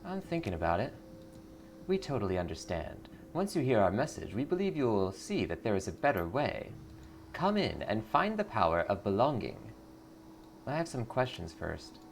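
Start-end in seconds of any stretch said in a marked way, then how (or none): 1.9-9.6 sugary cult greeter; lightly voiced sweet cult recruiter. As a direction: welcome her in like a smiling recruiter.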